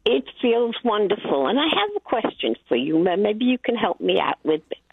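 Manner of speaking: ordinary talk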